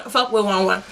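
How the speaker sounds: put-on Fuck boy one oh one said through a laugh; laughing repeat. Shown as a demonstration.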